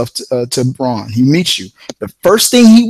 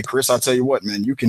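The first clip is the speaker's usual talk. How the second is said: lightly voiced gruff old-timer giving advice; Braun impression; 2 semitones lower, 7 dB quieter than usual. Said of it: "this was his voice".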